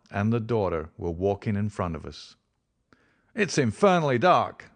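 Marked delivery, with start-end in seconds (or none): 3.3-4.7 put-on higher, louder drunken complaint; drunk grumbling. A narrator's reading. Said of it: "said he, stamping about".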